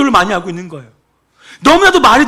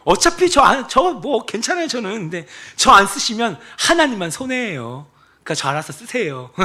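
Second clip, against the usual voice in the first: cheeky prayer. Retold or imitated. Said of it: "이게 교만한 기도예요?".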